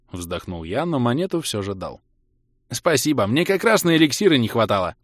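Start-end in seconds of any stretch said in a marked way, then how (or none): 2.7-5.0 brightly exclaiming elf; happy elf thanking; cheerful elf exclaiming. Acted. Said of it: "воскликнул эльф".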